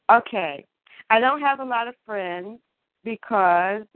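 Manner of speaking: measured, deliberate poetry-slam delivery; spoken word poem. Acted. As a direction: declaim it line by line with weighted pauses. Performs a spoken word piece.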